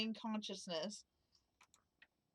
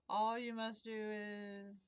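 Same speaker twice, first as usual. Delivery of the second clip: slow, choked ghost voice; slow gasping words through a cough; overacted death scene; 5 dB quieter, slower than usual. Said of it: "spice stuck in my throat".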